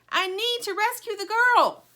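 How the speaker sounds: high, loud frantic plea; frantic cry. Acted. Lumpy fears failing the girl, frantic cry. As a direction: cry it out in a panic. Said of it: "cries Lumpy, frantic".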